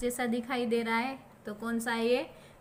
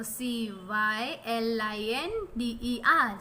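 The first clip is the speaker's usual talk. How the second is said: 1 slow spelling; slower than usual. Shown as a demonstration. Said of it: "spelling क्या होगा?".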